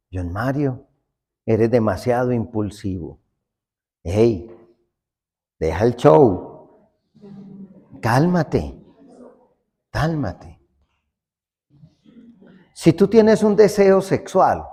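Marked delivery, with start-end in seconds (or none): 0.1-10.6 soft self-scolding. Retold or imitated. Scolding oneself softly.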